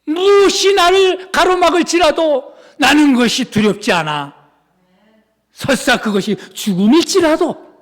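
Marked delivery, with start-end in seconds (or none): none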